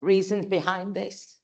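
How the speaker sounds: fighting to get the words out, pausing to steady herself; emotional, holding back tears. Real, not acted. Councillor near tears defending her motion to the mayor, emotional and strained. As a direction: voice rising high and straining with real emotion. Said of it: "I'm gonna get quite emotional here".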